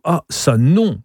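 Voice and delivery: high, wailing refusal; dismayed moan swooping up; moaning protest. A narrator's reading. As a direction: groan out the objection. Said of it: "gémit Turando".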